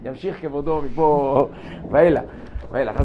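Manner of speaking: bow out politely, almost under the breath; deferential quiet reply. Retold or imitated. Telling the students how he deferred to Rabbi Sabato. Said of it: "אמרתי לו".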